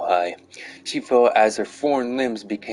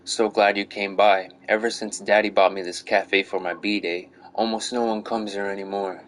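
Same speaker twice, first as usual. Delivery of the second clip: pouty voice. Acted. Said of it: "she called out in a thin, pouty voice with a note of a vocal fry".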